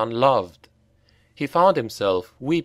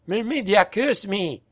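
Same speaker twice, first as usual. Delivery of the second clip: high anguished oath; crying out; 9 semitones higher than usual. A narrator's reading. Giano curses himself after falling, crying out. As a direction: cry out to the goddess. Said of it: "cried Giano".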